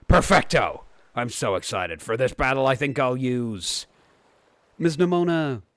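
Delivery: lightly voiced eager rival; bright, keen trainer girl, lightly played; Nemona voice. Reads Nemona's lines aloud.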